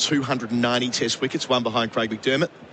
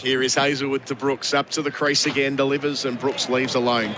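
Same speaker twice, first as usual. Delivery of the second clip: lightly lifted cricket commentary; live play-by-play; 3 semitones higher than usual. Real, not acted. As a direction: call the delivery as it happens.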